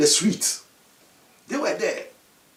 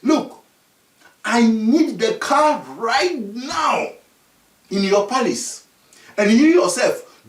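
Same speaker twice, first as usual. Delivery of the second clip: commanding; 3 semitones higher than usual. Acted. Dwarfs order the chief.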